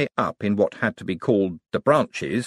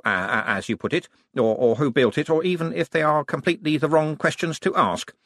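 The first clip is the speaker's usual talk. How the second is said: lightly voiced, rambling and stammering; apologetic young wizard; 3 semitones higher than usual. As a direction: stumble awkwardly through the excuses.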